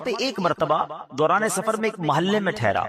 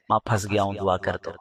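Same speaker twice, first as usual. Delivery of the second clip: put-on pleading child; 8 semitones lower, faster than usual. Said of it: "ماں کے پاس چلے جاتے ہیں".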